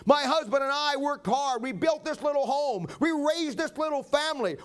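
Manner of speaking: a touch of trembling, begging for mercy; understated tearful mother's plea; mock weeping plea. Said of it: "Woman starts to tremble and begins to weep".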